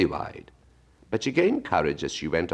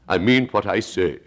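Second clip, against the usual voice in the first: offended; 4 semitones higher, 4 dB louder than usual. Acted. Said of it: "in an offended tone".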